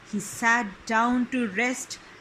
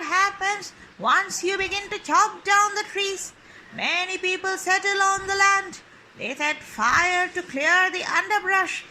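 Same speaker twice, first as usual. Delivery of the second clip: a touch higher, earnest bird voice; toucan voice; 5 semitones higher than usual. Acted. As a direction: warn him like a lightly voiced toucan. Toucan warns the man.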